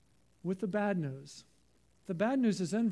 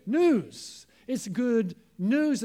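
loud, slow and confident; ringing confidence, each word given weight; confident proclamation; 6 dB louder, much slower than usual. Shown as a demonstration. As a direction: announce it boldly, stretching "news". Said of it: "Say it confidently".

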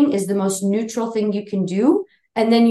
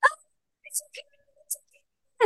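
mock dismissive soothing; 9 dB quieter than usual. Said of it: "some people who will be like".

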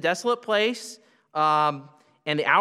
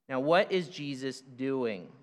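ordinary delivery

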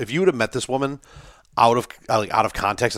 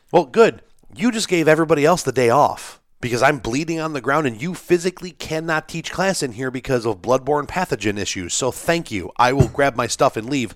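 retold angry comeback; 4 semitones higher than usual. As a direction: throw her own rules back at her, fed up. Narrator retells angry comeback.

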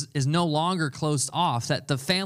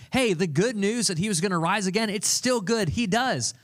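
higher, eager announcement; excited news; 4 semitones higher than usual. Acted. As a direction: burst out with the good news. Mary announcing risen Lord, excited.

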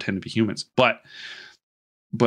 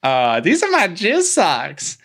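mock creepy gray man; 8 semitones higher, 3 dB louder, slower than usual. Gray man voiced in retelling.

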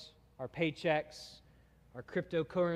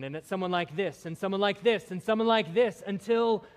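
stack them, louder every time; building emphasis; 3 semitones higher, 5 dB louder than usual. Acted. Preacher piling up the weight of the psalm, building louder.

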